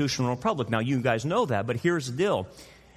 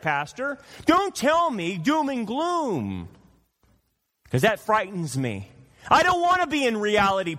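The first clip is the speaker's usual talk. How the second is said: mocking needy congregant, climbing higher and pleading; whiny churchgoer; 4 semitones higher than usual. Laodicean begging the pastor for good news, higher whining plea. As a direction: beg the pastor like a spoiled child wanting comfort. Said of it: "What did Laodiceans want their pastor to tell them?".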